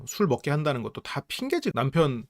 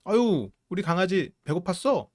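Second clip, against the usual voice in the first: put-on higher, doting baby talk to a pet; mother doting on a hungry puppy, higher; cooing to a puppy; 5 semitones higher than usual. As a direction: coo at the dog like an adoring owner. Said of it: "너무너무 행복하게 짖으면".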